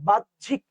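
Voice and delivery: বাহ্যিক broken as "baj-jhik"; two separate beats in বাহ্যিক; syllable break. Shown as a demonstration. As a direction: halt after "baj", then say "jhik" in বাহ্যিক. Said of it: "যেখানে হতে থামছে".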